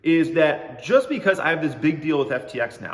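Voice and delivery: bright salesy sponsor-read voice; hammed-up announcer pitch for the ad; mock ad read. Host hypes his fake crypto sponsorship in a mock ad-read voice.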